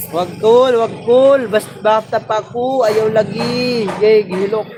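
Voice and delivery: high, drawn-out teasing call; playful high call. Acted. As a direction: stretch the words out slowly to tease him. Teasing call to Tol Sunny.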